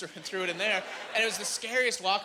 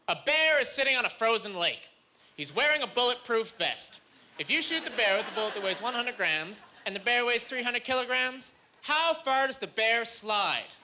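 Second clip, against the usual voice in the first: reciting exam question; 4 semitones higher than usual. Acted. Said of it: "this is the question verbatim".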